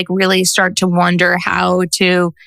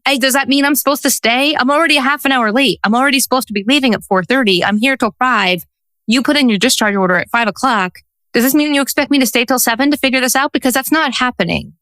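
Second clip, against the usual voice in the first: retold indignant protest, pitched higher; 5 semitones higher than usual. Social worker objects to late discharge order, indignant. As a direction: push back in mock indignation, higher voice. Acts out her protest to doctors.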